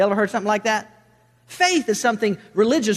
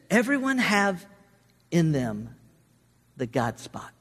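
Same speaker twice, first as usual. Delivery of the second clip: lightly imitated Eastern European accent, halting; 3 dB quieter, slower than usual. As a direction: quote him slowly in an Eastern European accent, pausing between phrases. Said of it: "In this Eastern European accent".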